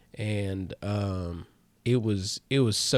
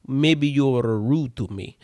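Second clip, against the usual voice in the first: louder mock Russian magician; Russian accent; 6 dB louder than usual. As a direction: reproach in a put-on Russian accent. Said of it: "if that was Russian".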